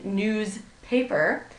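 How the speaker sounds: news, then paper, slowly; slow newspaper with a gap after news; two separate words. Shown as a demonstration. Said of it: "start as two words".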